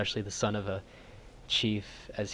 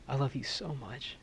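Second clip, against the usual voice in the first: tender farewell; 4 semitones higher, 7 dB quieter than usual. Acted. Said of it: "and he says".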